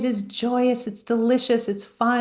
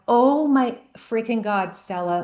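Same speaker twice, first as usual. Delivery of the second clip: retold panic; 2 semitones higher than usual. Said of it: "and I'm freaking out".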